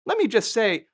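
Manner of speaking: imitating an older woman. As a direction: deliver the family threat like a mob matriarch. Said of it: "And she said".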